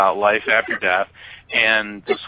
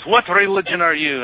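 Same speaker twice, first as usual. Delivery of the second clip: high, animated Egyptian cabbie accent, imitated; Hussein; 7 semitones higher than usual. Cabbie quizzing his passenger on religion, imitated accent. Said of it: "I guess I'm still doing Hussein".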